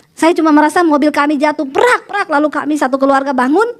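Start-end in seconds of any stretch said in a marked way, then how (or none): 1.6-2.3 quick high crash noises; spoken impact sound; imitated crash. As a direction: mimic a car smashing down.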